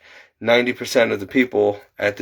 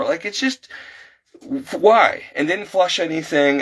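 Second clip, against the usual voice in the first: exasperated rant; 4 semitones higher than usual. Real, not acted. Fed-up moviegoer ranting to viewers about the bathroom, exasperated and high. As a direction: pitch climbing higher, incredulous and fed up.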